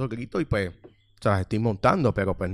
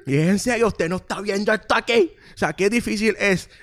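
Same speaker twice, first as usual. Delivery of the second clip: exasperated; 10 semitones higher, 5 dB louder than usual. Retold or imitated. Exasperated retelling at customer.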